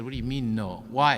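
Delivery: indignant demand. Retold or imitated. They challenge the doctor's refusal, indignant and loud. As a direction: demand an answer in disbelief.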